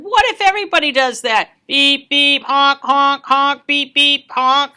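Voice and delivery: mock the honking crossly; annoyed neighbour. Neighbour Mister Thompson scolding the honking kid, fast and loud. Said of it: "shook his head and said".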